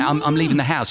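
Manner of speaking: London vowels in house; broad London house said haus; London accent. Retold or imitated. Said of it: "I used to say".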